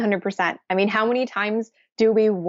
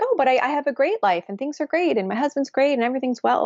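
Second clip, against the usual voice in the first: imitating a breezy client; 6 semitones higher, faster than usual. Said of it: "And they're like".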